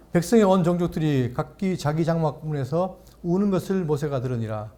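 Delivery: measured, solemn Bible reading; scripture reading. Acted. Pastor reading Numbers to the congregation, solemn reading.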